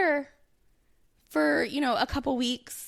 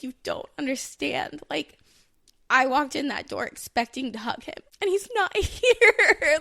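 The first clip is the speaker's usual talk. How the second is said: retold tearful protest; 3 semitones higher, 4 dB louder than usual. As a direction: re-enact an upset outburst, building to a wail. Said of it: "I started crying in the foyer".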